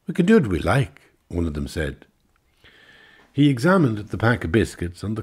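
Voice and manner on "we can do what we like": defiant retort. Acted. Woman retorts to Englishman.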